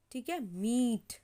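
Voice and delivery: slow, the ee of मीट long; teacher modelling मीट slowly; slow demo. Shown as a demonstration. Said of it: "long sound आएगा".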